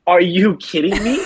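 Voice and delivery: high, incredulous protest; mock disbelief. Friend won't go home at closing time, high exasperated disbelief.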